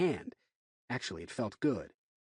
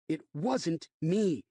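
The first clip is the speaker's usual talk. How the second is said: insisting; 5 semitones higher, much slower than usual. Acted. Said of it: "Will insisted".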